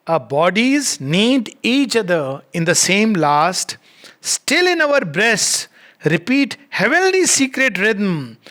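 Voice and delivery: slow, drawn-out verse reading; poem recitation. Acted. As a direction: recite it line by line, stretching the key words. Reads poem aloud.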